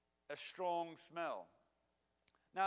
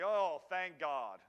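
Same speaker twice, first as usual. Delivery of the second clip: relieved thank God; 7 dB louder, much slower than usual. Retold or imitated. Relieved exclamation after near miss.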